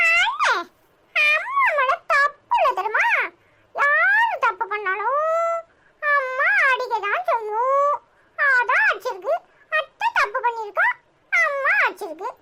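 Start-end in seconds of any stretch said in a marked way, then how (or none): 3.8-12.3 tearful. Acted. Sister defends their mother to her brother, crying.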